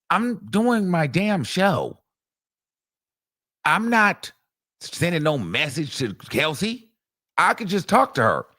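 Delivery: high, drawn-out mock protest; retold indignant retort. Witness denying she sends messages, high-pitched indignant retort. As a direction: imitate a witness pushing back, stretching the words. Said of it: "She's like".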